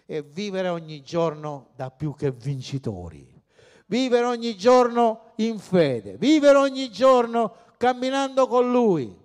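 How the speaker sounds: from steady to loud and high, hammering vivere; building preaching refrain. Acted. Preacher rousing the congregation, building to a loud refrain. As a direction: climb each line until it rings out.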